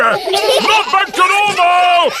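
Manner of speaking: high, hearty shouting; booming relief. Acted. Grampy testing his recovered voice, hearty shout. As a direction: holler it with the voice restored. Loud voice returns after medicine.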